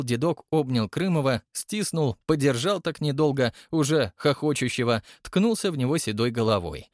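ordinary delivery

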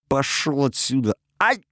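sharp high cry, then a yelp; outcry. Acted. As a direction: yell him off, then cry out in pain. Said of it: "вскричал мужик". (вскрик, потом возглас боли)

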